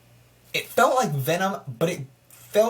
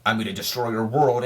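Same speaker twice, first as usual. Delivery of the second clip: mock villain threat; 6 semitones lower than usual. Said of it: "flip he says".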